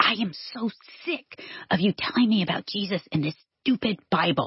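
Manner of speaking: hushed, quiet whisper. Retelling what a classmate said to the speaker in class: imitating someone whispering. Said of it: "she's whispering because we're in class".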